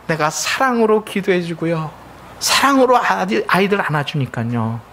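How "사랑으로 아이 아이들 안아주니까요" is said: usual speaking voice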